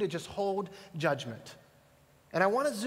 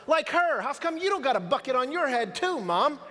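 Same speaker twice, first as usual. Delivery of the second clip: put-on child pointing out; 6 semitones higher than usual. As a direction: point and ask with toddler innocence. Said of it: "and he goes".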